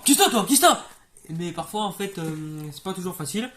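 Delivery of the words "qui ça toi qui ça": éclate fort et aigu en riant; tic crié. Acted. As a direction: crache les mots du tic. Tic de Tourette joué. (tic de Tourette crié en riant)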